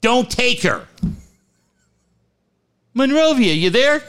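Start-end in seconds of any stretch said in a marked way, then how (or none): 2.9-4.0 high, bright on-air call; mock radio host. Ted calling the wrong name on air, mock host call. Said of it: "Ted on air".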